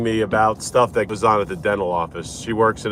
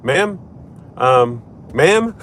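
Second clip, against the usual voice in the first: polite call; 2 semitones higher, much slower than usual. Retold or imitated. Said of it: "she goes".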